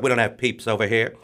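put-on lightly done British accent; a touch of British in a script quote. Reading the UK script's trick-or-treat line, light British accent. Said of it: "for the British version".

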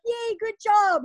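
mock cheer. Crowd cheering.

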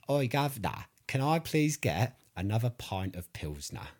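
mock her failed attempt at a Southern accent; bad Southern accent. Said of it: "what she was trying to sound like".

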